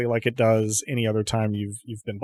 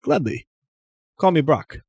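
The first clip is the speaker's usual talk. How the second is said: shopkeeper voice; 5 semitones higher, 3 dB louder than usual. Acted. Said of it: "and says".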